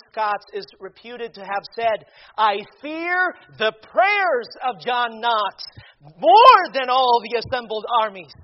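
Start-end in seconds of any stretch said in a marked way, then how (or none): 2.4-8.3 loud, drawn-out pulpit declamation; declaimed quotation. Real, not acted. Preacher quotes Mary, Queen of Scots on John Knox, declaiming. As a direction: hit it hard, leaning on the key words.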